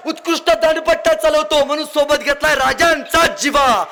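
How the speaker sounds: proud shout stressing राजांचा; ringing proud proclamation. Acted. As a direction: raise the voice and stress राजांचा hard, falling at the end. Proud praise of Jiva.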